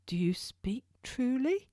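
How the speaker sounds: a hushed, disbelieving whisper; whispered doubt. Acted. Weak prisoner asking the turnkey if it is true, whispered. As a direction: breathe the question, barely voiced.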